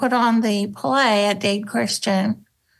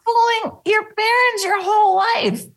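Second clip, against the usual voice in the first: higher, mock worried father; lightly voiced frightened dad; imitating dad; 8 semitones higher than usual. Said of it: "my dad called me and he goes".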